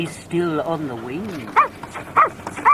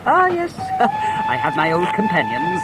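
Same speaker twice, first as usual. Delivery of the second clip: chuckling; 11 semitones higher, 3 dB louder than usual. Acted. Curate chuckling over his cards.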